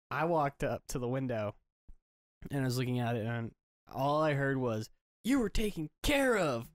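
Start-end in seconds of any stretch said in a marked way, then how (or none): 5.2-6.7 high-pitched imitated yell; retold scream. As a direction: mimic someone screaming across a parking lot. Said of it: "he was screaming".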